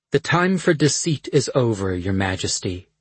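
stern dark sorceress; cold sorceress voice. Acted. Dark Asha's voice.

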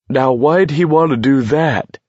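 high, indignant exclamation; crying out. A narrator's reading. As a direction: call it out in puzzled protest. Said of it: "Scram cried".

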